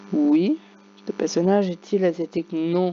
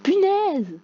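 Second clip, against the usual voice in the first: high, loud "Punaise!"; exasperated curse; 13 semitones higher, 3 dB louder than usual. Real, not acted. Gamer cursing at Akinator, exasperated. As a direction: blurt it out in frustration. Swearing in frustration.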